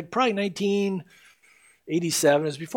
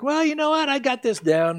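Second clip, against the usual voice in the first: higher-pitched imitation of overconfidence; mock self-assured believer; 10 semitones higher than usual. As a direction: play someone who thinks they've got it handled. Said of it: "a point in your life where you think".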